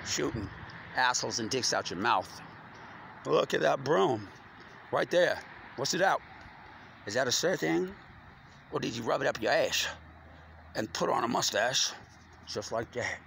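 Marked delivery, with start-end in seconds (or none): 3.3-9.9 mocking taunt. Real, not acted. Mocking the officer's mustache.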